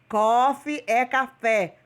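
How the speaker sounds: Coffee é café said slowly, word by word, falling at the end; slow teaching repeat. Shown as a demonstration. Teacher repeating for students, slow and deliberate. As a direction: spell it out slowly for the class.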